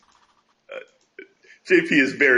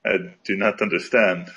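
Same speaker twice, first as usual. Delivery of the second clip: put-on French accent; 4 semitones lower than usual. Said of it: "You're doing it now".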